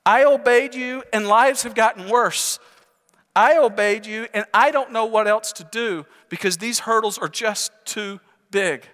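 high-pitched exasperated protest to God; frustrated. Acted. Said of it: "He's frustrated".

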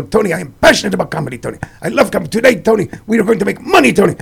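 put-on fast Lebanese accent, passionate; imitating Jack, quick and intense. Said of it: "His accent".

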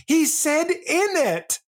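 high-pitched mock amazement; imitated giddy audience reaction; delighted crowd member. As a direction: squeal it like a charmed fan. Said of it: "we're in the crowd".

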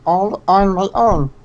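lightly rasped alien Stitch; small gravelly cartoon alien. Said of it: "Who did the Stitch voice?".

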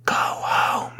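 unvoiced whispered line; whispered dying words. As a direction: breathe it out with no voice. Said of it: "where she whispers".

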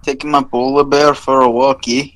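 put-on cartoon Canadian; mock Canadian with a tagged-on "eh"; stereotyped Canadian accent. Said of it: "our accent people think we have".

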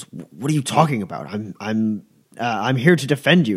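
fast, stammering confusion; flustered guard. Acted. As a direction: rush out the words, thrown off. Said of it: "he goes".

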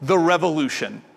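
solemn trailer voice; lightly voiced announcer; dramatic reading. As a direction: announce it grandly. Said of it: "then it goes".

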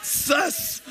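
voiceless, drawn-out "Sus"; breathy whispered sus. Shown as a demonstration. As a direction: whisper the word like a secret. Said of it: "This next one is sus".

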